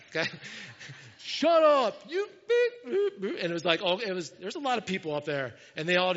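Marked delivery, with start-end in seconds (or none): 1.2-3.3 high, loud hollered insult, cut off; mock yell back. Neighbors answering the pastor's complaint, mock yell back. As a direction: imitate a neighbor yelling from far up. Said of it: "they yelled back".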